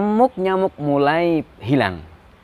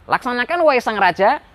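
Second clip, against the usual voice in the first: higher-pitched minister taking the order; obedient minister; 8 semitones higher, faster than usual. Acted. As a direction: answer the king promptly in a higher voice. Minister obeys the king's order.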